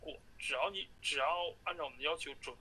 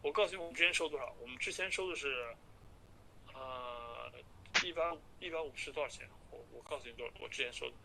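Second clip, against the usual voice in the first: phone call; 3 dB quieter than usual. Real, not acted. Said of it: "听一下吧".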